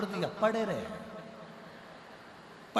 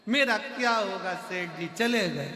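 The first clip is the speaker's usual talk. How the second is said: higher, hammed-up weeping wife; mock wailing; 5 semitones higher than usual. Wife wails to the guru over her dead husband, mock cry. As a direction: wail to the guru like fake grief. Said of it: "पत्नी रोई खूब चिल्ला चिल्ला कर".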